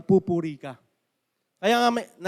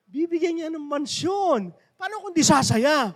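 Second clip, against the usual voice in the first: higher, slow, glowing with hope; joyful Mamberto; 8 semitones higher, 4 dB louder than usual. Retold or imitated. Mamberto tells the pastor of his promised mansion, higher and slow. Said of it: "Sabi niya ganun".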